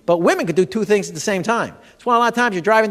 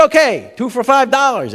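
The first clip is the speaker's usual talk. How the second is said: slow, higher, put-on shopkeeper voice; 6 semitones higher, 4 dB louder than usual. To the tourist, a slow put-on shopkeeper offer. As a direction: drag out the offer like a sly vendor.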